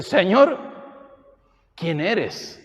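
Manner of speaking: high, loud startled call of Señor; awed cry to the Lord. Retold or imitated. Paul cries out to the Lord, high and loud. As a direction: call out to him in awe. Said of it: "Pablo lo entiende y dice".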